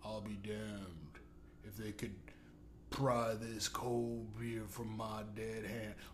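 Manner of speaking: low, soft smoker's voice, like a cowboy. Mocking the owner in a horse-riding commercial, doing his heavy smoker's voice. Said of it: "he sounded like he just smoked a pack of Marlboros".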